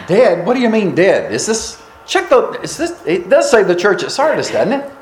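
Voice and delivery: puzzled, halting surprise at the news; mildly acted disbelief, checking the address; surprised churchgoers. Sardis church members hearing they are called dead, mildly surprised. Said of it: "they would have been surprised, going".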